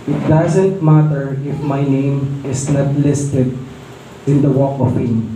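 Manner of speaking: slow, earnest retelling of the actor's words; sincere quote, slowed. Retold or imitated. Preacher quoting actor to the congregation, slow and earnest. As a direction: let each word land slowly and sincerely. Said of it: "Sabi niya".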